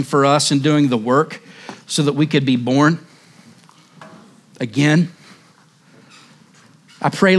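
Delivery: a hushed, earnest closing prayer. Acted. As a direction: pray gently over the church.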